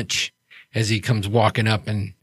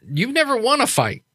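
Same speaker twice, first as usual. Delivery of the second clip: teasing jab; 12 semitones higher than usual. Acted. Jack teasing the troll.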